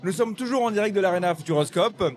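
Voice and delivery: hoarse, losing his voice; straining a hoarse voice to be heard. Real, not acted. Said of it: "j'ai plus de voix". (voix enrouée, presque éteinte)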